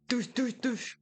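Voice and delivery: imitated beat, punchy repeated syllables; beatbox a simple thudding rhythm; mouthed drum beat.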